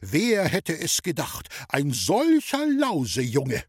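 slow, head-shaking indignation; disbelieving gentleman, drawn out; lightly voiced gentleman tutting; indignant gentleman. A narrator's reading. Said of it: "den Kopf geschüttelt und hat gesagt".

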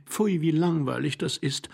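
high, disdainful interruption; bored young wife. Acted. Young wife interrupting her husband's story, bored and disdainful. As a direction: cut in with high-pitched disdain. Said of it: "unterbrach ihn seine junge Frau".

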